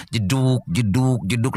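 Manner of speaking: low, repeated thud noises; jeduk-jeduk impact sound; imitated thudding. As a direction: mimic dull knocks one after another. Imitates head banging on sandbag.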